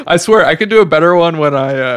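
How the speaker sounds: a faint, bad British accent; hint of British accent. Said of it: "your British accent is so bad".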